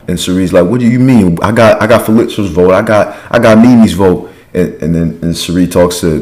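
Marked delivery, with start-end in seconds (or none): 0.7-4.3 mildly hammed-up higher-pitched disbelief; mock flustered insistence, pitched up; indignant protest. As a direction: imitate someone protesting in disbelief. Acted indignant reply in retelling.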